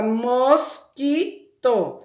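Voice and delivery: "mosquito" split as mos, qui, to; three distinct beats on "mosquito"; syllable by syllable. Shown as a demonstration. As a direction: say "mosquito" slowly with a pause after each syllable. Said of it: "Qual é a sílaba final da palavra".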